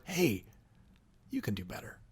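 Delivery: quiet, gentle encouragement; soft and caring, believing in them; genuine concern. Shown as a demonstration. Parent to child after collecting the fee, quietly caring. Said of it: "you can express genuine concern".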